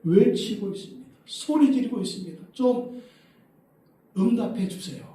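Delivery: imitating an insistent appeal; acted begging. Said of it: "제자들이 사정할 정도죠".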